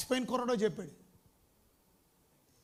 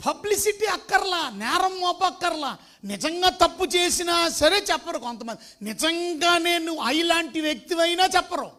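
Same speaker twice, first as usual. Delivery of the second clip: preaching at full force; 5 semitones higher, 6 dB louder than usual. Acted. Preaching no publicity.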